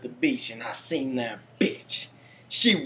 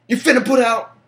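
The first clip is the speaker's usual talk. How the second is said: cocky pickup line; 10 semitones higher, 8 dB louder, faster than usual. Retold or imitated. Flirty retold pickup line.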